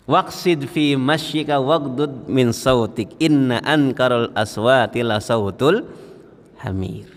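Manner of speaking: slow, measured Arabic recitation; Quran recitation. Acted. Preacher citing the verse on lowering the voice, measured recitation. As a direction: draw out the long vowels of the verse.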